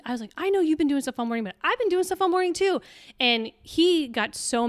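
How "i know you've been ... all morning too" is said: higher, fast, rising into a frustrated protest; retelling her fed-up rant to her husband; exasperated outburst. Retold or imitated. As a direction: build up the irritation as you insist. Wife retells her angry reply.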